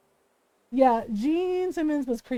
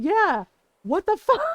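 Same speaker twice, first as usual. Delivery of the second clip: louder, laughing what the fuck; laughing outrage; 5 semitones higher, 6 dB louder than usual. Real, not acted. Host echoing her husband, laughing in disbelief.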